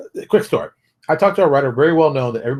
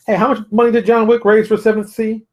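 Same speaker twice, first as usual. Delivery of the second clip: raised, louder voice throwing the question back; challenging retort; 9 semitones higher, 5 dB louder than usual. Pretend. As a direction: fire it back at the doubters. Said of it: "go tell them".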